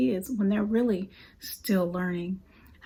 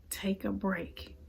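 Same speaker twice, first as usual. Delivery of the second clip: soft slow reassurance; 9 dB quieter, slower than usual. Retold or imitated.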